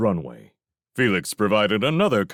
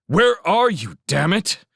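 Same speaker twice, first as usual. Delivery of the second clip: loud, raised, exasperated demand; impatient shout; 12 semitones higher, 6 dB louder than usual. A narrator's reading. Felix cuts Railsmith off to find him, shouting impatiently. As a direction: cut in hard and demand an answer.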